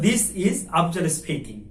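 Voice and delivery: slow, careful model read; slow correct model. Shown as a demonstration. Teacher models the better introduction slowly. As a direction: lay the phrase out slowly. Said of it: "This is, not my name is".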